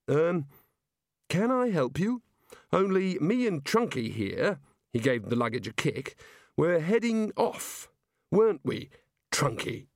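a nervous wizard stalling; flustered Rincewind. Acted.

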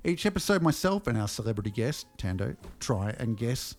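measured podcast host read; deliberate announcer-style read with pauses; scripted segment intro. Acted. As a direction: present the segment with mock-formal ceremony.

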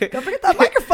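high, loud laughing reminder. Real, not acted. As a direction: call it out over the laughter. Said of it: "You don't talk that loud".

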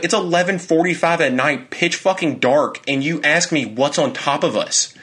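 high, indignant protest; retold exasperation. Fiancé telling fiancee what she said at night, exasperated. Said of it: "I was pissed".

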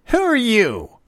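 put-on high, loud child's challenge; belligerent little boy. A narrator's reading. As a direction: demand it like a pugnacious small boy. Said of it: "he demanded belligerently".

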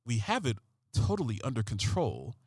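lightly voiced CSI Miami cop reading Trump; David Caruso voice. Comedian quoting Trump as David Caruso, low and hushed. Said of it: "I'm gonna use a David Caruso voice".

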